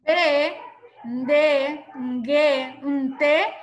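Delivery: "P, D, G, T" as prenasalized mbe, nde, nge, nte; hummed nasal onset before each letter "P, D, G, T"; nasal digraphs. Shown as a demonstration. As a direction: push each of "P, D, G, T" through the nose first. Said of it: "porque hay una fuerza en la nariz".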